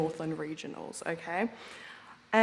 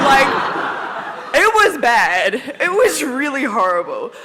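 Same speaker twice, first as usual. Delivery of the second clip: close to tears; 5 semitones higher, 9 dB louder than usual. Real, not acted. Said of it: "I'm gonna try not to cry".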